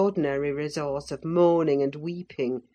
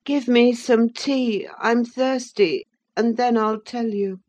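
put-on peevish sickly boy; 7 semitones higher, 5 dB louder than usual. A narrator's reading. Sickly Linton peevishly demanding tea before he answers. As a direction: demand tea like a spoiled invalid. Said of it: "he answered".

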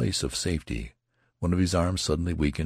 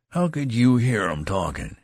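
skeptical soldier; 6 semitones higher than usual. Acted. Soldier raising final objection.

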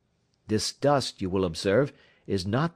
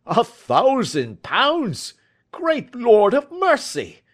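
much higher and louder, slow; astonished cry; 14 semitones higher, 6 dB louder, slower than usual. A narrator's reading. Commissionaire hearing the reward, crying out in astonishment. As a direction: cry out, floored by the sum.

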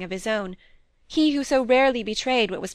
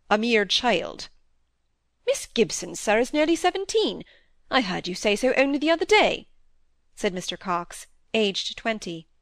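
lightly voiced stern older doctor rebuking; a hint of a stern father scolding; stern father figure; 3 dB louder than usual. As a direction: lecture the young man with rising scorn. Father lectures young apprentice.

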